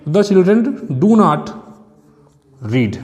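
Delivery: teacher dictating so students can write; slow dictation. Shown as a demonstration. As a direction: spell it out word by word, very slowly. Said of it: "teacher dictates English sentence slowly". (धीमे-धीमे बोलकर लिखवाना)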